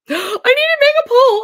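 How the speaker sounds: gasp, then blurt it out high and loud; suddenly thrilled by the idea; high, loud, delighted announcement; excited gasp. Real, not acted. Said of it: "Oh, I'm so excited".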